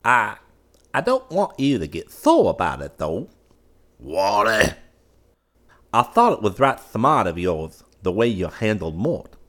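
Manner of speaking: high, loud, eager wheedling voice; butter up the old man, eager and nervous; fawning nephew. A narrator's reading. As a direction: nephew wheedling his uncle for approval.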